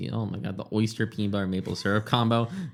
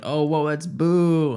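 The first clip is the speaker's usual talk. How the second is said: surprised; 5 semitones higher, 4 dB louder, much slower than usual. Retold or imitated. Retelling people seeing him.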